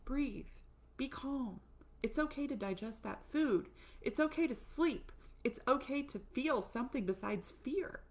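calm a frightened self like a friend; soothing inner voice. Retold or imitated. Body soothing herself after a scare, gently reassuring. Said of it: "need your parasympathetic nervous system to be like".

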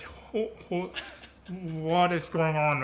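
slow, stuttering bafflement; super confused. Retold or imitated. Dancer baffled by his friend's German, super confused. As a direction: stumble into the question, dragging it out. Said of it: "it's super confused".

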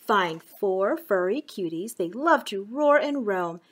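lively storybook reading; reading to children. Acted. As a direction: read it to little kids. Reading a picture book.

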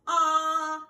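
a wide-open "Ah." like at the doctor; open-mouth ah. Shown as a demonstration. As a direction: show the kids how to say "Ah." with mouth wide. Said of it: "you should go".

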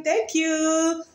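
high laughing thanks into giggles. Real, not acted. Laughing farewell.

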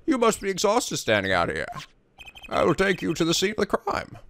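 put-on lightly German-accented gallant; a hint of German lilt, courtly. Voicing the prosecutor escorting the lady to the scene. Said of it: "that was sort of German sounding".

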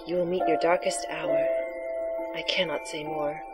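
hushed mystical seer; breathy oracle voice. Acted. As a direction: softly intone the prophecy. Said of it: "your breathy, sexy voice for the oracle".

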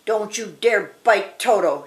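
storybook shout at normal pitch; mild shout. Acted. Dorothy warns the lion off Toto, mildly shouting. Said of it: "shouted Dorothy".

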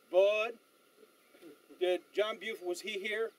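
imitating a West Texas accent. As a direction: put on a West Texan's accent, with a pause after Bud. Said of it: "in that West Texas accent".

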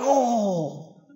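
drawn-out "oh" on waking from a kick; mock groan of sudden pain. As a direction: imitate a winded groan. Waking after being kicked, retold.

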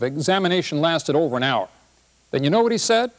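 lightly voiced husband telling his wife about the doctor, fretful; upset old husband. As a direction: grumble through the doctor story like a worried husband. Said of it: "this is what he says".

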